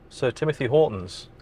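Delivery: mock-posh, lightly voiced title; posh version. Shown as a demonstration. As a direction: say the name like a lightly played toff. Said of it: "That's the posh version".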